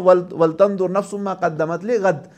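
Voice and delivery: slow, melodic Quran recitation; Quranic recitation. Acted. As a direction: chant the verse slowly.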